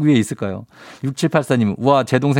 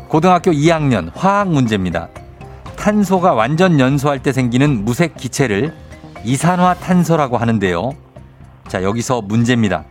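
quiz show host. Acted. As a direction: quiz host reading the question. Host reads quiz over music.

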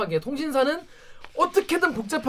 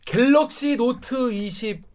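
hard sell ad. Retold or imitated. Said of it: "그런 광고 많아요".

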